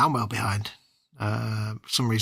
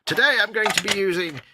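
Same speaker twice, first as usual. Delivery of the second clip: put-on glamorous old Hollywood star, mid-Atlantic accent; 6 semitones higher than usual. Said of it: "I shall now start talking with my mid-Atlantic accent".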